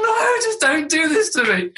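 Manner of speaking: slow, laughing and half-crying plea; laughing despair. Retold or imitated. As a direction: beg through helpless laughter, slowly. Embarrassed dad recalls inner plea.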